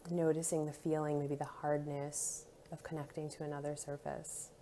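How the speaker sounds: soft, calm body-scan guidance; guided meditation. Acted. Guide leading listeners through touch points and skin sensations, soothing guided meditation. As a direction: lead them gently through each sensation, leaving pauses.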